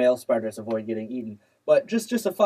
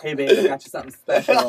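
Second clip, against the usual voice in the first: put-on cheesy boyfriend voice; 2 semitones higher, 5 dB louder, faster than usual. Voicing the male spider.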